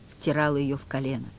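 ordinary delivery, nothing marked

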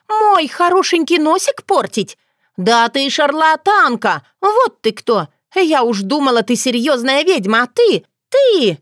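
put-on very high, girlish outrage; angry, lost for words. A narrator's reading. Dunya calling the yaga a fraud, high and outraged. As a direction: rage in a high voice until words run out. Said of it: "У разгневанной Дуни".

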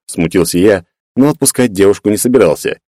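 ordinary delivery, nothing marked

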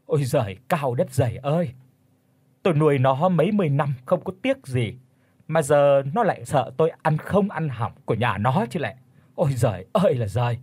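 mock wailing curse. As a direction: cry out to heaven, hammed-up grief. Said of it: "chửi lên choa choa".

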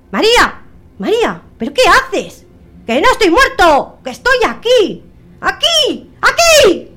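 high, loud pleading ghost of the husband; desperate ghost. Acted. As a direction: call out frantically from beyond the body. Dead husband's ghost calls out.

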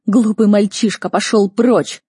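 loud, scornful dismissal; barked rebuke. A narrator's reading. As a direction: order the foolish boy away. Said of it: "гаркнул герцог Артье".

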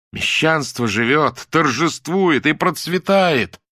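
slow, building to high loud cry; threatening shout. A narrator's reading. Muza shouts at Lyuda waving a book, threatening cry. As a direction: brandish the words like a threat. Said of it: "угрожающе ... тоже стала кричать".

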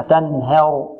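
تنهر with the a of ه tilted toward e; tilted fatha. Shown as a demonstration. Teacher warning students against reducing the fatha, tilted vowel. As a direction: show the error, "tanher" for تنهر. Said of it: "ونحذر من تقليل الفتحة".

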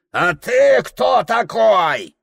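put-on high shouted old merchant sneer; father's mocking shout; gruff father. A narrator's reading. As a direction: bark it at the boy like a drunk father. Father challenges son.

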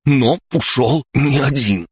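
high, anxious outburst; blurted. A narrator's reading. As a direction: blurt it out under threat. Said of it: "глотая слова, выпалил Шор".

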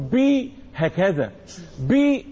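"بي" with a clear i vowel after the b; kasra on the ba. Shown as a demonstration. Teacher showing students the ba's vowel, kasra pronunciation. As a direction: say "بي" with the ba firmly in kasra. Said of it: "إذا الباء مكسورة".

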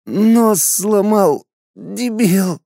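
slow, high pained complaint; injured woman moaning at her captor. A narrator's reading. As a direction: drag it out through the pain. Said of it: "простонала она".

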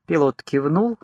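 usual speaking voice

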